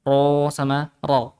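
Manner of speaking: first ro heavy, second ro with rounded lips; slow ro sama ro. contrasting the two ro sounds; heavy ro versus rounded ro. Shown as a demonstration. Teacher compares heavy ro and rounded ro slowly.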